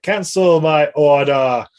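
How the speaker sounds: slow, deliberate commanding voice; disguised as Dredd. Retold or imitated. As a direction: give the order with cold authority. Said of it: "and he's like".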